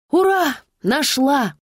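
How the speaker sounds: high, loud joyful cry; triumphant. Acted. Sister cracks the phone password, cheering. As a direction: cheer at the discovery.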